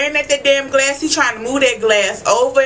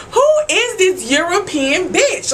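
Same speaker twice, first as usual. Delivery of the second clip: mock indignant; 7 semitones higher than usual. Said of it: "I'm like".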